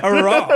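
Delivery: high, loud comic roar; imitated roar. Copying the co-host's dinosaur noise, mock roar. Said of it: "it roared like".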